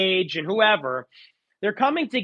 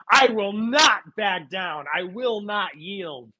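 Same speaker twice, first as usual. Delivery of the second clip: mock defiance; slower than usual. Mocking a defiant slogan.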